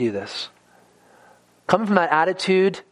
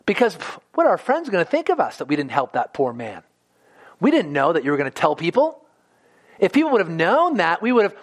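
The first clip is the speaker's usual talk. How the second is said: mock excuse; 2 semitones higher, faster than usual. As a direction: play the priest wriggling out, amused at himself. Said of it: "priest and Levite objecting to Jesus' story and say".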